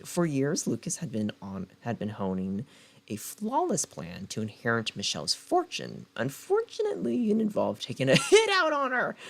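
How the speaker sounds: dramatic book-blurb narration; blurb read. Acted. Reading the back cover to her viewers, dramatic blurb read. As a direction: sell the story like a trailer.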